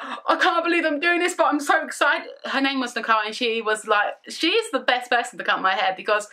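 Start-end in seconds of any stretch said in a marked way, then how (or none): 0.0-2.3 higher, laughing through the words; nervous thrill with a laugh; excited giggle. Retold or imitated. Hairdresser Nicole before cutting, giggly and excited. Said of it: "She was really excited but really nervous".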